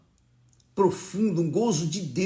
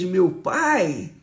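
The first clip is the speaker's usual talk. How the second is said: smiling, lighter voice; with a smile. Retold or imitated. Man calling God the second time, now smiling. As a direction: let the smile show through the words. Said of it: "eu já falei com um sorriso".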